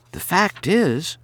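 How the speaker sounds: put-on a brisk young woman scolding gently; Carrie's voice. A narrator's reading.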